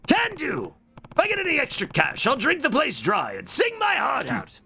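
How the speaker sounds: high excited character voice; cheery heroine voice. Acted. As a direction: bounce it like an eager girl. Voicing heroine's cheerful reply.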